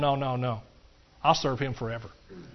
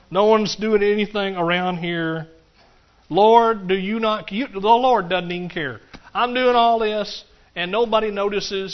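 higher, louder, slow complaining; mock grumbling at church work; self-pitying whine; 3 semitones higher, 7 dB louder than usual. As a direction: whine that nobody helps.

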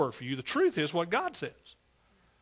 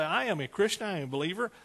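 bold declaration. Acted. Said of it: "and say".

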